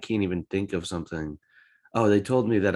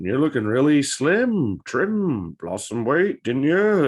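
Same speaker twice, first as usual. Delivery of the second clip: put-on Irish accent; 4 semitones higher, slower than usual. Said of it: "approach them with that accent".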